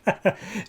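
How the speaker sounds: short, light scoffing laugh; a quick dismissive villain's chuckle; mocking chuckle. Villain scoffing at eager kids, mocking chuckle.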